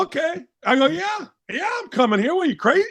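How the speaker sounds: can't believe his luck, high and hushed; retold stunned delight; giddy yes.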